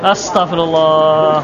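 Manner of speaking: slow, low drawn-out astagfirullah; teacher feigning lost patience with a student; mock exasperation. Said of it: "untuk mendinginkan".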